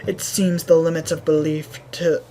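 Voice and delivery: level, formal shaman voice; measured, sober storytelling; grave village shaman. Acted. Shaman recounting the Goron tribe's turn, grave. Reads shaman's account of troubles.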